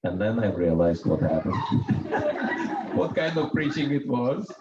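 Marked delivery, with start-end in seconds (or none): 1.6-4.5 chuckling through the words, amused at himself; laughing. Real, not acted. Monk laughing to the crowd at his own mix-up, laughing. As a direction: laugh it out, high and light.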